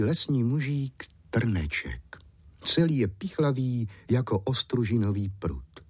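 plain reading voice

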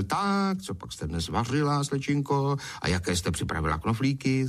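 cheery singsong greeting; lightly hearty, chirpy hail; hearty holler. Acted. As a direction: call out breezily, expecting a meal. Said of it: "přišel darmošlap a hlaholil".

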